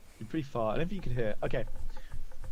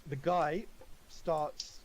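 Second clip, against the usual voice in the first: normal talking voice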